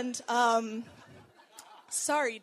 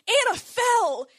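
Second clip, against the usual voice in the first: called out; 10 semitones higher, 8 dB louder than usual. Retold or imitated. Shane calls up after the fall.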